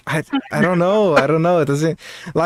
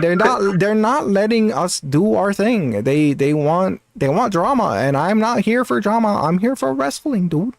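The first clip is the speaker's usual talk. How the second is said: lightly mimicked streamer, rising higher as it goes; imitated streamer cadence; 5 semitones higher than usual. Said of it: "the cadence of how he speaks is kinda similar".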